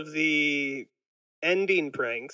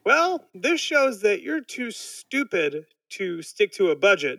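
higher and slower, voicing a condescending planner; financial planner voice; 4 semitones higher, slower than usual. Planner scolding Homer about his budget, in a lightly voiced condescending tone. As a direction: talk down like a planner, higher and slow. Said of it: "she tells Homer".

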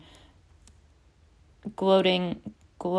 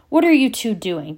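louder, suspicious demand; 4 semitones higher, 7 dB louder than usual. A narrator's reading. Ron demanding from the hall doorway, suspicious and louder. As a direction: challenge them from the doorway. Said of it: "demanded Ron".

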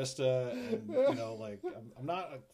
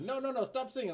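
higher-pitched imitation of a little girl; young daughter; 10 semitones higher than usual. Dad retelling his daughter stopping his singing, child imitation. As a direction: lightly mimic a child cutting dad off. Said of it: "my daughter did it to me".

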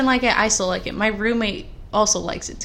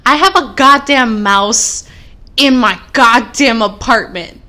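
exasperated; 9 dB louder than usual. Real, not acted. Venting about mouse in apartment.

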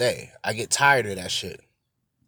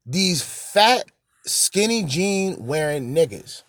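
mocking drawl; 5 semitones higher, slower than usual. Real, not acted. Slow mocking correction.

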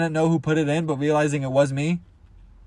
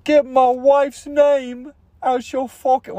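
high, slow, drawn-out angry warning; Will Smith; 8 semitones higher, slower than usual. Acted. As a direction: stretch out an outraged high-pitched yell. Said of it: "Will Smith, you know?".

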